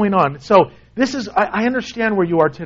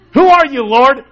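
amused knowing question; knowing laugh; 3 semitones higher, 6 dB louder than usual. Shown as a demonstration. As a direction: ask as if you already know the answer. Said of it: "it sounds like you know".

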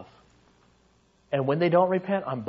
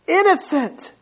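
God declaring; 7 semitones higher than usual. Acted. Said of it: "he says".

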